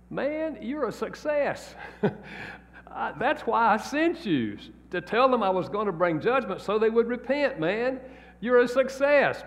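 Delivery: amused God. Retold or imitated. God answers Jonah, amused.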